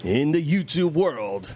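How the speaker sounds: a hint of a booming ring announcer; radio voice. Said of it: "I'm doing my radio voice".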